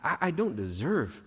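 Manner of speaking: softly acted humble prayer; understated, lowly plea; humble confession. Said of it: "He comes humbly".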